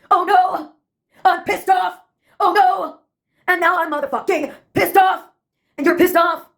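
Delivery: put-on high-pitched theater-kid outburst; theatrical scream. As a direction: play it like a melodramatic musical chorus. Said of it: "theatrically scream like a theater kid".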